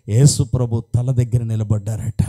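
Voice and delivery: hushed whisper of wonder; awed whisper. A narrator's reading. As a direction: whisper it as a holy secret. Awed moment, Jesus appears. (ఆశ్చర్యంతో గుసగుస)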